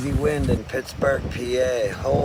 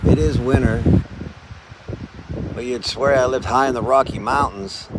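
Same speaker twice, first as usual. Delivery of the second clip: shouting over wind. Real, not acted. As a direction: call out over a gale. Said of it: "I don't know if you can hear me over the wind".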